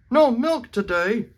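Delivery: high, loud shocked question; cried out. Acted. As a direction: cry out in disbelief. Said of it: "cried Farmer Brown".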